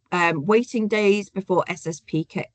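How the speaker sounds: stumbling over words, dentures slipping; loose dentures. Real, not acted. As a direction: speak as if teeth aren't in properly. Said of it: "I've got to put my teeth in".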